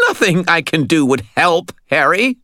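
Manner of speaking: high, loud, overwrought voice; high-pitched, despairing outburst; hysterical. A narrator's reading. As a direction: blurt it out on the edge of hysteria. Hysterical Butters after wild laugh.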